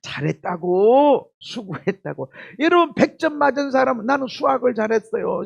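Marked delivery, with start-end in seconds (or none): 0.0-2.3 gentle praise. Shown as a demonstration. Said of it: "그 말만 하면 돼".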